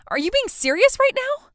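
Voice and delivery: stunned, pushing back; shocked disbelief. Acted. Bride shocked that nobody will come, disbelief.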